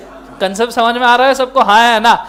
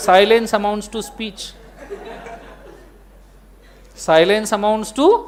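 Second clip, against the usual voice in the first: very slow, word by word legal rule; slow dictation; 3 dB quieter, much slower than usual. Shown as a demonstration. Teacher dictating the law to students, very slow. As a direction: dictate it slowly for notes.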